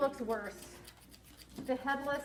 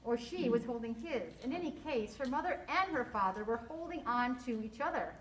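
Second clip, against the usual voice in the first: expressive storybook narration with lively dialogue; story read-aloud. A narrator's reading. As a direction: read it to children, acting each line.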